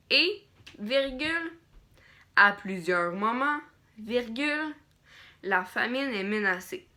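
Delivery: dictating. Shown as a demonstration. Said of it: "dire les points, dire les virgules". (dictée lente, ponctuation dite à voix haute)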